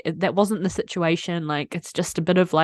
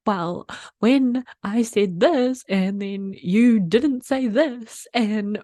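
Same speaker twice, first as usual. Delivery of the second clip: quivering lip retold; much slower than usual. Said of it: "lip was quivering and I was like".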